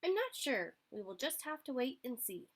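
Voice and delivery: a tiny plant shrugging from underground; seed voice. Acted. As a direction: voice the seed, unsure but patient. Seed character voice.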